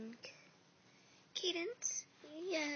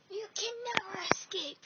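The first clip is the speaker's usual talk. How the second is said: menacing; 7 semitones higher, 8 dB louder than usual. Acted. Villain's menacing threat.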